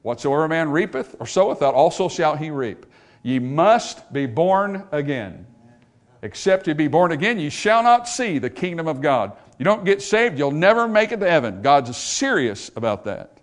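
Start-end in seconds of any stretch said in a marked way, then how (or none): 0.0-9.3 scripture reading. Acted. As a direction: read the verses with solemn weight. Reads scripture in preaching cadence.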